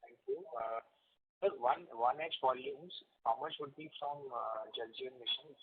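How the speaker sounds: faint and distant on the line; speaking too softly to be heard; barely audible. Real, not acted. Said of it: "Dheeresh, sir, your voice is very low".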